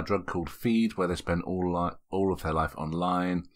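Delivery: whisper. Real, not acted. Reading intro under breath.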